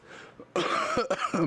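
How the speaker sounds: badly faked cough; put-on coughing fit; fake cough. Game master shows Quack's unconvincing need to cough, fake cough. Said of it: "everyone can tell that he's faking it".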